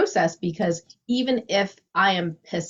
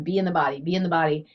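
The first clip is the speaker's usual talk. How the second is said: calm mantra; 3 semitones lower, much faster than usual. Retold or imitated. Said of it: "over and over again".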